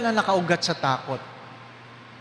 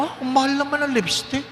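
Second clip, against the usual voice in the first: mock reply; 6 semitones higher than usual. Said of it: "Sabi ko".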